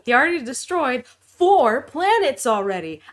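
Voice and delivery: lightly voiced Bella Thorne; a hint of Bella Thorne; Bella Thorne impression. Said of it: "That's my Bella Thorne impression".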